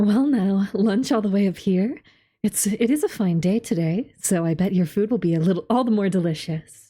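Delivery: put-on slight teasing older-sister ara ara voice. Voicing a game character who greets someone eating lunch on the roof: a little ara ara voice. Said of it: "I'm giving her a little ara ara".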